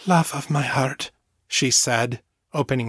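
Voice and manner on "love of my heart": tender Southmorean lilt; an endearment in a motherly Southmorean lilt; lilting Southmorean accent. A narrator's reading. Mother opens her arms to Fiona, lilting Southmorean accent. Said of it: "Her lilting Southmorean accent was as warm and comforting".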